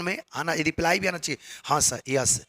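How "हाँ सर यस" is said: low, soft repeated yes sir; quiet attentive yes sir. Shown as a demonstration. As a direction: murmur assent to the speaker. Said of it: "ऐसे style वो बोलता है ना".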